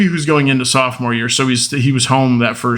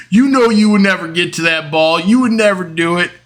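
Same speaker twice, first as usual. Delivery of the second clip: mock-protesting, higher-pitched brother; lightly acted, insistent dismissal in a raised pitch; dismissive taunt; 5 semitones higher, 3 dB louder than usual. Brother belittling the shortstop's catch, mildly mocking protest.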